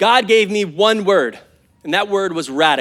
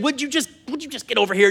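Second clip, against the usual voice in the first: voicing Jesus calling; 5 semitones higher, 5 dB quieter, faster than usual. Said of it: "Jesus is just saying".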